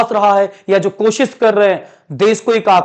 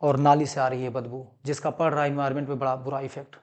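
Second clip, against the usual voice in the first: subdued mock news report, low and soft; not-very-good anchor imitation; amateur news anchor; 5 semitones lower, 7 dB quieter than usual. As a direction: lightly play a newsreader giving a report. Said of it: "मैं एक अच्छा news anchor नहीं हूं".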